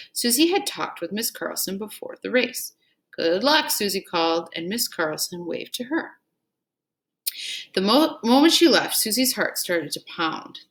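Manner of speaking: put-on lively read-aloud to children; story narration. Teacher reading the Iditarod story aloud to pupils. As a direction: tell the race story so the class leans in.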